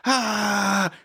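rally her like a Spartan; Dorinda's warrior speech. Retold or imitated. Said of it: "Spartan roar speech".

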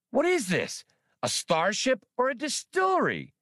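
high, fussy squeaking creature; squeaky voice. Acted. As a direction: squeak it out like a fretful rodent. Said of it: "Spray squeaked after him".

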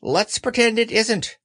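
high rabbit voice. Acted. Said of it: "said Rabbit".

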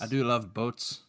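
lightly put-on Irish accent; mild mock-Irish brogue; Patrick's Irish accent. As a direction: say it with amateur Irish vowels. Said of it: "Speaking of bad accents".

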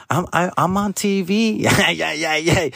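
hammed-up I'm-a-star bragging voice, in an odd put-on tone; mock big-shot boast. Bragging to the dermatologist as a TV star, mock-pompous. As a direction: play the self-important celebrity. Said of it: "I don't say it like that".

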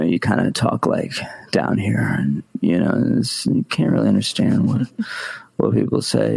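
low, creaky demo of vocal fry. Shown as a demonstration. Streaming coach showing Americans' vocal fry, low and creaky. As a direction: drop down into a lazy, creaky mumble. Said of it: "to have the vocal fry".

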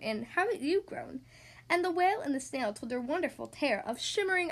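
measured, lilting read of a rhyming tale; children's story narration. A narrator's reading. Podcast host reading a snail and whale tale to children, storytelling. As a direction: read the rhyme clearly for young listeners. Reads a picture book to children.

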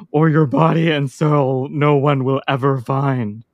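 slow hissing snake voice for the Oracle; drawn-out s like a snake. Acted. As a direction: stretch every s like a serpent. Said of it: "Am I supposed to snake voice this right now?".

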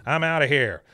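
bail out in a hurry; impersonating Strickland. Retold or imitated. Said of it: "He goes".

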